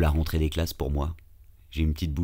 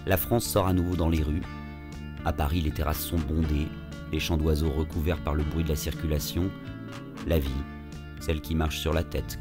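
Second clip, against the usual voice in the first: calm reflective narrator voice; story narration. A narrator's reading. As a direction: tell it like a podcast intro. Episode narration over music.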